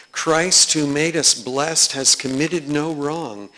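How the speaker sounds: fervent recitation; proclaiming chorale text. Acted. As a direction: declare it to the room.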